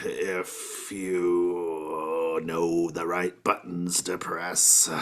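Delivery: slow sly hint. Acted. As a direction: drag it out, fishing for a bribe. Bribe hint, drawn out.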